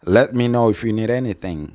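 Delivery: "let me know if you need anything" with words joined; teacher models "let me know if you need anything"; linked model pronunciation. Shown as a demonstration. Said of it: "la oración completa se pronuncia". ("let me know if you need anything" con palabras enlazadas)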